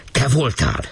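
hint of a shout at the girl; policeman's mild accusation. A narrator's reading. Policeman accusing the girl, lightly voiced shout. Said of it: "ordított rá a rendőr".

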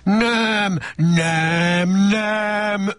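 a mild mock shout of nos. A narrator's reading. Shocked Ogre refuses Donkey coming in, mild shout. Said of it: "ordította döbbent".

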